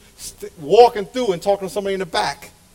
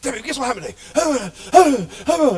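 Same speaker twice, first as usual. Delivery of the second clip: slow, higher, eager calling out; eager husband; 5 semitones higher, 3 dB louder, slower than usual. Retold or imitated. Husband telling his wife eagerly in the kitchen. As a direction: drag it out with excitement. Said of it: "you're in the kitchen".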